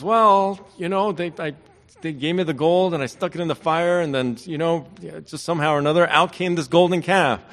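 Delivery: a hint of a squirming, guilty brother; sheepish Aaron. Aaron excuses the golden calf.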